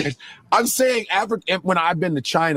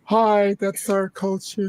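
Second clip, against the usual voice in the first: slightly higher, prim put-on hello; polite greeting; 3 semitones higher, slower than usual. Lone Black visitor greeting a Lithuanian club, prim polite voice. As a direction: greet them in a polite, careful voice. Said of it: "but I'm like this".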